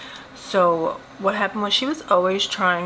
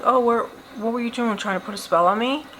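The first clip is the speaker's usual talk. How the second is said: joking tone; 5 semitones higher, faster than usual. Retold or imitated. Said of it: "I made it sound like a joke".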